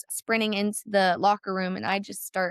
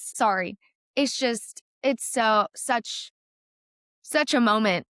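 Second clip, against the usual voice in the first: choked up; slower than usual. Real, not acted. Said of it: "it makes me wanna cry".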